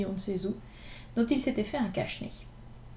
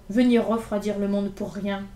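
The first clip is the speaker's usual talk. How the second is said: mildly gruff barber, a little louder; gruff grumble; 4 dB louder than usual. Acted. Barber shutting the door on two crying boys, gruff. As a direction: shove them out with a grumble. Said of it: "avec un visage furieux".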